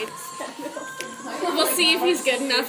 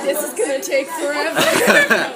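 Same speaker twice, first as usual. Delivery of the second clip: mock exasperated; slower than usual. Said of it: "rolls his eyes like".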